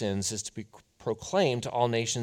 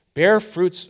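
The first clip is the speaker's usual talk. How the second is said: louder, higher rebuke; prophet's rebuke; 8 semitones higher, 9 dB louder than usual. Retold or imitated. John the Baptist rebuking the hyped-up crowd, loud and stern. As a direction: cry it out like a desert prophet. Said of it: "earlier in Luke".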